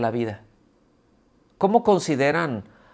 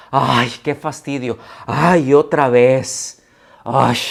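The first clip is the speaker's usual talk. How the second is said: loud, slow, groaning ay of boredom; louder drawn-out qué fastidio; exaggerated annoyance; 5 dB louder, slower than usual. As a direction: ham up the fed-up sigh. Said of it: "La expresión es".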